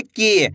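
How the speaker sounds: की with a long, held ee; drawn-out vowel. Shown as a demonstration. Teacher answers how to read the long-ee sign, की drawn out. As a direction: stretch the ee in की. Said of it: "खींच के पढ़ना है".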